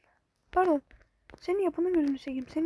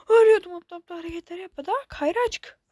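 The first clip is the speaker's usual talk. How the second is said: frustrated scolding; 7 dB louder than usual. Real, not acted. Scolding near death in game.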